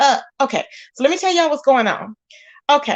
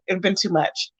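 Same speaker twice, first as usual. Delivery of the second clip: whispered aside, softer; 4 semitones lower, 5 dB quieter than usual. Real, not acted. Aside about moderating stress.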